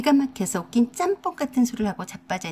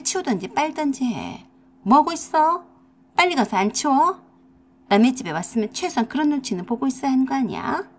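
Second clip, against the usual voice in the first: exploding at sister-in-law. Acted. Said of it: "저도 모르게 폭발해버렸습니다".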